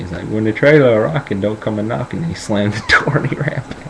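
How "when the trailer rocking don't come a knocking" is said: lightly voiced Southern grandpa; hint at an old Southern man warning off a kid. Grandpa shooing grandson from the trailer, light Southern voice. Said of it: "this is how he talks".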